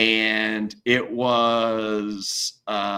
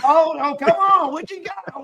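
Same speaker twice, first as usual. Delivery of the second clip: high, louder taunting; mock judge baiting; 4 dB louder than usual. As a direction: egg him on, pitched up.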